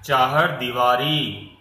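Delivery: चाहर दीवारी said slowly, दी and री held long; slow model of चाहर दीवारी; long ii sound. Shown as a demonstration. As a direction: stretch the ई vowels in दीवारी. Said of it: "तो ये देखिए दीवारी".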